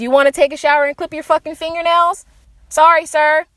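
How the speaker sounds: hammed-up mocking question; mock disbelief. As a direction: taunt with fake incredulity. Mocks the terrorist's scorn for grooming.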